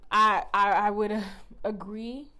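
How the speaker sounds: slow, laughing through the words; laughing agreement. Real, not acted. Reader agrees with the spirits' warning, laughing. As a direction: chuckle as you agree.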